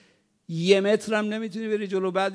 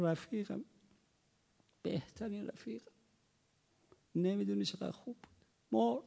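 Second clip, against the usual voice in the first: mourner's lament; 4 semitones higher, 8 dB quieter than usual. Retold or imitated.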